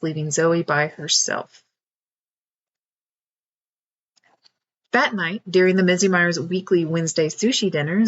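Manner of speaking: story narration. A narrator's reading. Author reads her picture book.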